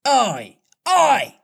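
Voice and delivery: eager boy playing a game; blithe. A narrator's reading. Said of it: "answered blithely in his own voice".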